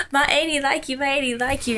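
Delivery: imitated nephew. Imitates nephew telling on aunt.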